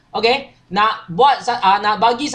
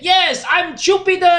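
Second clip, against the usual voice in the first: mock yell; 6 semitones higher than usual. Second prince outdoing his brother with the arrow, mock yell. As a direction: cry it out high like a triumphant storybook prince. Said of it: "Dia jerit".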